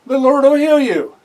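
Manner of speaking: put-on servant girl's advice. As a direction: plead it like the young servant girl.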